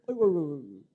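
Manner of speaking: calm the crying daughter; soothing sighs. Retold or imitated. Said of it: "다독거렸어요". (우는 딸을 달래는 아이고)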